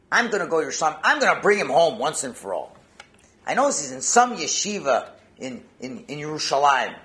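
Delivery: mock paternal outburst; fed-up father. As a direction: declare it forcefully, acting exasperated. Fed-up father resolves to fetch son.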